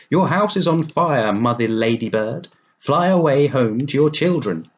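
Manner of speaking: high, loud alarmed call; urgent warning. Acted. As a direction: cry out the alarm to the ladybird. Ladybird warned of fire.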